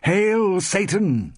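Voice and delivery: slow, loud high acclamation; slow, loud ritual cheer; crying out. A narrator's reading. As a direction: cry it out as a coven. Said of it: "they cried".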